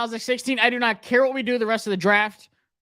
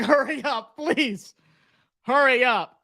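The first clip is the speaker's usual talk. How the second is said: impatient pleading; 5 semitones higher than usual. Real, not acted. Impatient waiting for the pick.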